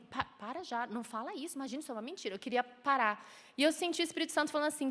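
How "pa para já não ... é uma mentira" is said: much softer, urgent reassurance; calm a child quickly under your breath; hushed mother. Retold or imitated. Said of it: "o que eu quis fazer é falar assim". (mãe sussurrando para acalmar o filho)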